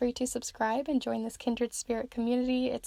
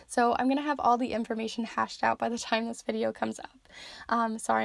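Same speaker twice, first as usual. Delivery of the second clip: losing voice. Real, not acted. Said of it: "I'm losing my voice".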